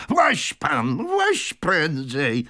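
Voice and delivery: high, drawn-out 'climb in' call; urgent call. A narrator's reading. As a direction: hurry him aboard loudly. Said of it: "zawołał stary Wardle".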